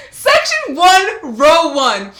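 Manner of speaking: loud, high, drawn-out amazement; shouted awe at the lucky seats; astonished excitement. Real, not acted. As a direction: stretch out each word in thrilled disbelief. Astonished at front-row seats.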